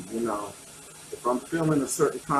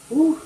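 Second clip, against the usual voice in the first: shaky exhale; 7 dB louder than usual. Real, not acted. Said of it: "I'm getting a little teary".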